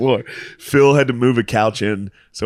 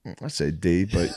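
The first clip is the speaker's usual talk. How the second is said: dry verdict; 5 semitones lower, 9 dB quieter than usual. Retold or imitated. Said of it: "He's like".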